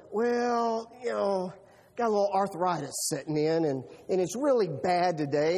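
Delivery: mock-sheepish older brother; lame excuse. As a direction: make a feeble excuse about arthritis. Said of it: "his brother goes".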